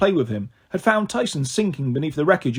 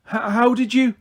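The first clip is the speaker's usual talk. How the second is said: stammering, higher astonished gasp; 6 semitones higher than usual. A narrator's reading. Grover gasping at Percy's win, astonished. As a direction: catch your breath in amazement. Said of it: "Grover gasped".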